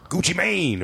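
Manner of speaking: high, drawn-out intro call; Arsenio Hall. Retold or imitated. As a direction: announce the guest like a talk-show host. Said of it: "he's gonna do an impression of Arsenio Hall".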